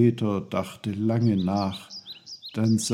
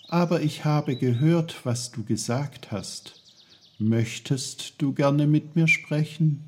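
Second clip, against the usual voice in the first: put-on lightly raised, curious boy's voice; a hint of a higher, friendly boy; young Peter, eager; 6 semitones higher than usual. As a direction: ask it politely like a boy talking to trees.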